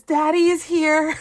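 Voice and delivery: barely holding it together reading the caption; reading a scratcher caption while laughing. Real, not acted. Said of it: "And it says".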